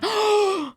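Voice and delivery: high surprised gasp; sharp gasp. Real, not acted. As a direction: gasp in delight. Sees the dice roll.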